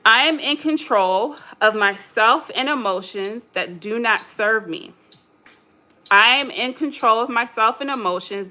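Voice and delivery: steady, deliberate affirmation read. Shown as a demonstration. Speaker leading listeners through an affirmation, steady and deliberate. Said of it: "number five".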